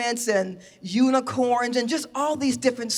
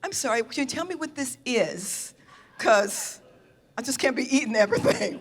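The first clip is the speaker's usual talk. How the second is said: polite, careful diplomatic asking; diplomacy voice; 3 dB quieter than usual. Retold or imitated. Retelling her Korea dinner, in her best diplomacy voice. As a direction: ask it like a guest minding her manners. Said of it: "with my best diplomacy voice".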